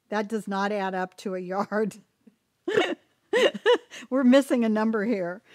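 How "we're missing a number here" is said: laughing. Real, not acted. Laughs at bad sum.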